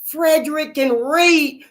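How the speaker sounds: playing the thrilled wife, voice up high; excited. Master's wife telling her husband the news, high mock excitement. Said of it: "She was so excited".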